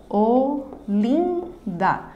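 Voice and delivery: "Olinda" in three slow beats: o, lin, da; syllable by syllable. Shown as a demonstration. Teacher separating a word for students, syllable by syllable. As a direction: pause after each syllable of "Olinda". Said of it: "Na separação silábica".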